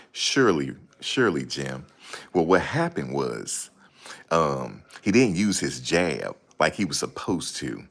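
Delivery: slow, pompous boxer-pundit; lightly voiced Sugar Ray Leonard; mock intellectual. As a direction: drag out big words, self-important. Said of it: "trying to be super intellectual".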